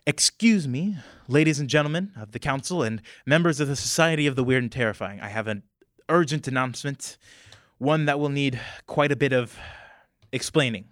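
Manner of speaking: a council speaker calling the hall to order. Acted. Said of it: "the speaker goes".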